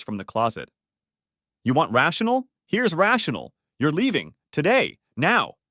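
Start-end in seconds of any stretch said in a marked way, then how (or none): 1.6-5.6 high, loud, clipped-off orders; cold fury. Acted. Husband ordering his wife out of the house, furious. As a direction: throw each word at her.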